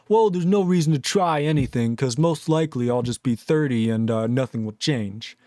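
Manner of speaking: lightly acted hopeless mope; mock defeatism. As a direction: start up, then sink into resignation. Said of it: "I should sit around and go".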